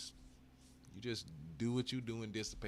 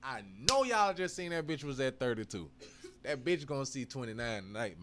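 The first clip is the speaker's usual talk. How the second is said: speaking through laughter, louder; laughing; 3 semitones higher, 7 dB louder than usual. Real, not acted. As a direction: laugh while you say it. Laughing while repeating.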